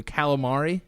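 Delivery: calamari with a flat first "cal"; Americanized calamari. Shown as a demonstration. Friend showing why the word sounds weird, Americanized calamari. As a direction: say calamari with the a of "cat". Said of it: "even saying calamari just sounds so weird".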